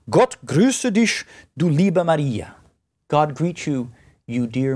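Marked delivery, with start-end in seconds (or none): 0.1-2.6 Gott grüße dich du liebe Maria slow and tender in German; slow German greeting. Shown as a demonstration. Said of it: "to make the angel speak good German".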